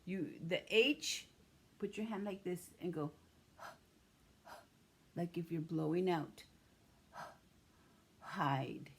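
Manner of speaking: "Hide" with a breathy h like blowing out; teaching the h sound. Shown as a demonstration. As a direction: blow air out on the h of "Hide". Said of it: "teach piece on hide".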